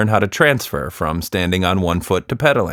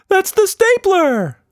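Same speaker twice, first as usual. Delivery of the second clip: high, slow, proud monster voice; proud silly creature boast; 4 dB louder, slower than usual. Acted. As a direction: show off your gadget like a goofy monster. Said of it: "Quatsch Monster said proudly".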